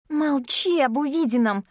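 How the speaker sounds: high hissed warning; hissing. Acted. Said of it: "шипит она".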